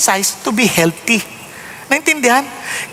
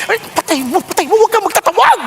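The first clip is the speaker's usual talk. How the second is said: panicked plea; 8 semitones higher than usual. Retold or imitated. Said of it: "Sabi ko".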